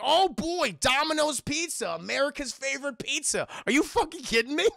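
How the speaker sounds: high, gushing mock delight; mock excitement. Retelling a character's joy at Domino's Pizza, mock excitement.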